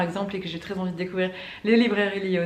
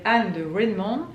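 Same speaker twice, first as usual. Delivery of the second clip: title said with an English accent; English-accented book title; 3 dB louder than usual. Real, not acted. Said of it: "Excusez mon accent anglais".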